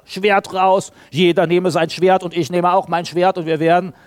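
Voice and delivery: loud, lightly acted call to arms; rally the men like a fighter; a hint of a hot-headed warrior; fighter's rallying call. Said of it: "Der war halt ein Kämpfer".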